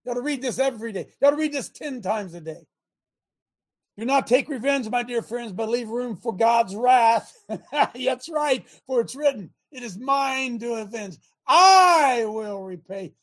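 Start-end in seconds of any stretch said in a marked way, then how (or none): 4.0-13.1 preaching. Acted. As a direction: preach it from the pulpit with fire. Preaching scripture again.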